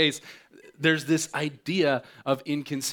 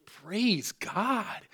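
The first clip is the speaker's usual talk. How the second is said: mock relief; 10 semitones higher than usual. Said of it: "And I thought".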